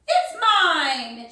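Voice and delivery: loud, eager claim; shouted. Acted. Squirrel racing his rival, shouting over him. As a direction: shout it to grab the cone. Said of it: "shouted Cyril".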